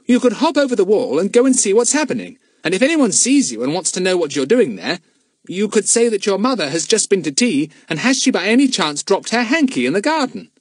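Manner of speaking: lightly voiced eager boy; young boy, high and eager; Fatty's voice. A narrator's reading.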